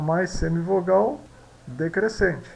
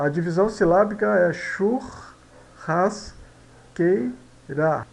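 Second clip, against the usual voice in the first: slow reading aloud; much slower than usual. Shown as a demonstration. Teacher reading a quiz option slowly to the class. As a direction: read it out slowly, syllable by syllable.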